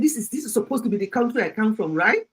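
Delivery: lightly put-on British accent of her protesting son; imitated Oyibo English. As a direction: mimic the son's Oyibo grammar, lifting on the last question. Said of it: "He was just trying to speak his, uh, Oyibo grammar".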